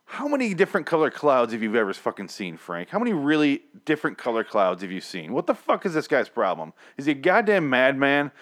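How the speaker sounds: exasperated, incredulous ranting; real, mounting exasperation; worked-up rant. Real, not acted. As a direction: rant as if fed up with him. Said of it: "I don't know why I'm getting so mad".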